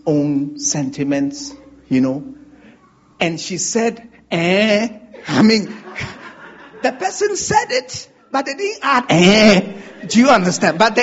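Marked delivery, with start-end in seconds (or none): 4.3-4.9 loud, scornful "Eh?"; a provoking jab of a grunt; louder, challenging "Eh?"; mocking eh. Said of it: "adds a certain accent to the quarrel". 9.1-9.8 loud, scornful "Eh?"; a provoking jab of a grunt; louder, challenging "Eh?"; mocking eh. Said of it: "adds a certain accent to the quarrel".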